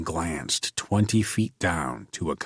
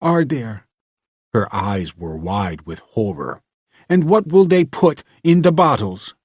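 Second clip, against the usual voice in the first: horrified; 3 semitones higher, 6 dB louder than usual. A narrator's reading. Horrified girl.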